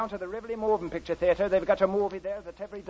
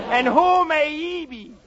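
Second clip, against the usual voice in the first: louder, slow, breaking into laughter; laughing; 6 semitones higher, 7 dB louder, slower than usual. Acted. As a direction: ask it again through giggles.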